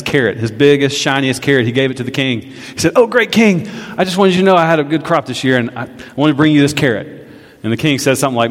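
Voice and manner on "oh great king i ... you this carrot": humble farmer. Acted. Farmer voiced in parable.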